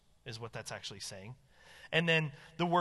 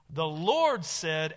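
"Lord" slow and loud; stress on Lord; 5 dB louder, much slower than usual. Shown as a demonstration. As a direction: draw out "Lord" with weight. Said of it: "and then how does he".

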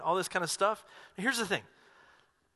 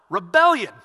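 1 emphatic shout; 5 semitones higher, 9 dB louder than usual. Real, not acted. Punchline shouted to congregation.

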